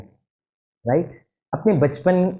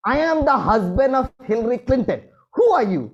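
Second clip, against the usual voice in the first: mock indignant shout; 5 semitones higher, much slower than usual. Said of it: "बहुत जोर से चिल्ला कर कहा".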